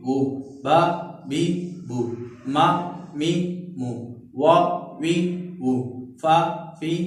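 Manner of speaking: आ, ई, उ through शा, शी, शू, each syllable alone; syllable drill. Shown as a demonstration. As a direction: recite the vowel series, one syllable per beat. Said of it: "देखा आपने".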